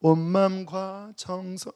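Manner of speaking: hushed and very slow; soft, slow prayer. Shown as a demonstration. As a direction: murmur tenderly, unhurried. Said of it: "이미 열렸기 때문에". (아주 조용하고 느리게)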